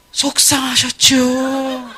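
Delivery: 아주 느리게 늘이는 동정 어린 말투; 천천히 달래듯 공감하며; mock sympathetic agent. 상담원의 과한 공감 흉내. (과하게 공감하는 상담원 흉내)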